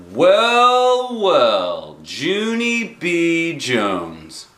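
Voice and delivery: drawn-out, knowing "well, well"; a hint of a dry principal; slow teasing grown-up; principal's mock surprise. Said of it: "he said".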